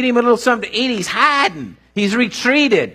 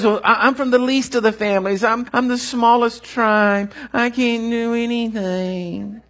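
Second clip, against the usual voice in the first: whining; 4 semitones higher than usual. Acted. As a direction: whine like a helpless man. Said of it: "So whines and whines".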